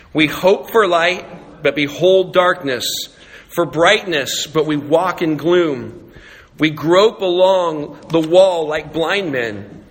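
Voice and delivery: slow, measured congregational Bible reading; scripture reading. Real, not acted. Pastor leading the congregation through Isaiah, measured scripture reading. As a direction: read it out deliberately for many to follow.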